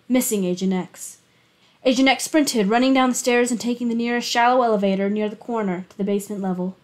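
steady, even reading of a thriller chapter; story narration. A narrator's reading. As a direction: read it like an audiobook narrator. Reads a thriller chapter aloud.

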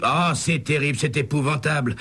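lamenting. A narrator's reading. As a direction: moan it like all is lost. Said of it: "continue à se lamenter Starnes".

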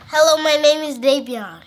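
blocked nose voice; speaking through a stuffy nose. Real, not acted. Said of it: "See, he sounds stuffy".

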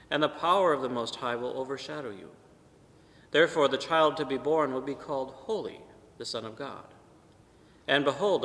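measured, solemn proclamation of scripture; Gospel reading. Acted. Priest proclaiming the Gospel at Mass, solemn reading. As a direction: read the Gospel to the congregation.

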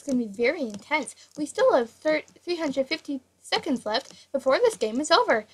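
flat robotic voice. Real, not acted. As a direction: speak like a robot. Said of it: "Why do you sound like a robot?".

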